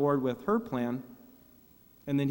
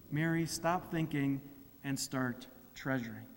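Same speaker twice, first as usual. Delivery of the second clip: gentle rebuke; 3 semitones lower, 7 dB quieter than usual. A narrator's reading. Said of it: "Jesus shared a gentle rebuke".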